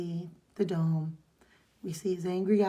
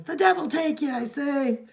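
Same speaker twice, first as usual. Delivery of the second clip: higher, louder, mock fierce; parting curse; 7 semitones higher, 6 dB louder than usual. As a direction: ham up a storming-off curse. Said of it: "He goes".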